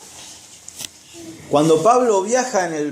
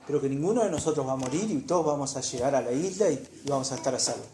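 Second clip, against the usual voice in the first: Pablo's calm reassurance, noticeably softer; soft reassuring Pablo; 4 dB quieter than usual. Retold or imitated. Preacher voicing Pablo calming the jailer, softly reassuring. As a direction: hush the guard's fear, gently. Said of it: "Pablo le dice".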